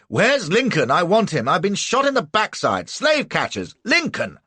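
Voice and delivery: high, loud frantic demands; desperate shouting. A narrator's reading. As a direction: shout it out in panic. Wounded man shouting in house.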